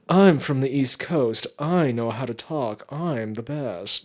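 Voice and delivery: self-satisfied know-it-all, slowing at the end; superior. Acted. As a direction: put on a smug East Coaster. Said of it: "It's very much a superiority complex".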